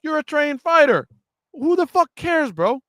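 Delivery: loud, high mocking shout; mocking yell. Real, not acted. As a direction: throw his words back, yelling. Mocking then ranting.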